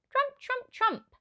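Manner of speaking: very high trumpet call like an elephant. A narrator's reading. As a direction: blast it high like an elephant's trunk. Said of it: "The elephant trumpeted".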